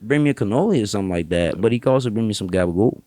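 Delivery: a lightly done wiseguy, rambling; New York accent. Shown as a demonstration. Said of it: "New York accent over here".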